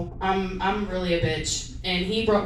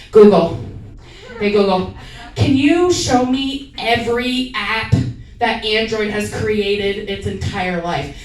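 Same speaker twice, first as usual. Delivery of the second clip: mock voice command; 5 dB louder than usual. Talking to a phone assistant.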